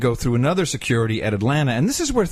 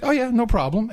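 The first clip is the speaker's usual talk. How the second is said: friendly agent; 11 semitones higher than usual. Retold or imitated. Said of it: "but they said".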